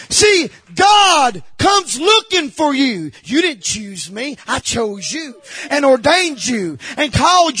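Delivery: fervent pulpit delivery; emphatic preaching. Real, not acted. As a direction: preach it out to the congregation. Preaching at full force.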